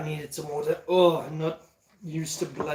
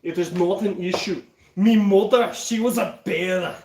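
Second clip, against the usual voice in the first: playful Scottish accent demo; 4 dB louder than usual. Shown as a demonstration. Showing off with a tale of mother, Scottish accent. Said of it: "I can do a Scottish accent".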